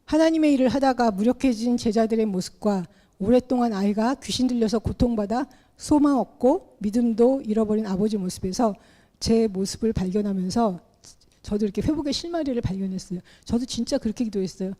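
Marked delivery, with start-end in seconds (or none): none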